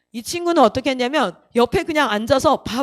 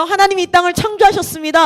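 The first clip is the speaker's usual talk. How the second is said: lightly voiced preacher, raised pitch; a hint of solemn proclamation; preacher's declaration; 4 semitones higher than usual. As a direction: quote it like a line from the pulpit. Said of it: "아까 뭐라고요?".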